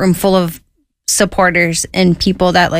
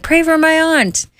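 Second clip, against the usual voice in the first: much higher mock voice; cellmate's request; 10 semitones higher than usual. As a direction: pop it up high and quick.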